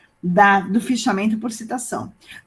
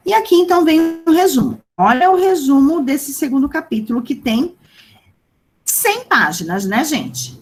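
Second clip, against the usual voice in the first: excited; 5 semitones higher, 4 dB louder than usual. Acted. Teacher excited about tiny summary.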